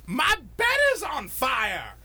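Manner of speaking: slow, high panicked "my bed is on fire"; a caller frozen in panic. Retold or imitated. Caller telling dispatcher, in slow panic.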